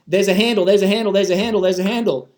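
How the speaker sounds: mock repetition. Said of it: "sitting there repeating that one-sided agenda".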